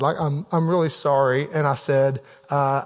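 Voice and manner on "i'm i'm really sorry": lower, gently remorseful; understated, humble regret; sincere apology. Retold or imitated. Father retells apologizing to son.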